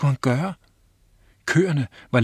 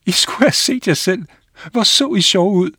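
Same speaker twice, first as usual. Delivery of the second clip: gloating; 8 semitones higher, 6 dB louder than usual. Acted. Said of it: "rullede rundt på græsset af grin".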